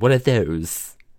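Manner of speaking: put-on slow, drawn-out British accent. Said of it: "keeping on the accent".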